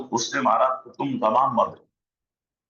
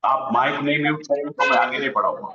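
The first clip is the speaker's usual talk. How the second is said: fast, firm half-joking ultimatum; stern threat; faster than usual. Real, not acted. Teacher warns class he won't teach until mics are muted, firm and fast. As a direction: lay down the law quickly.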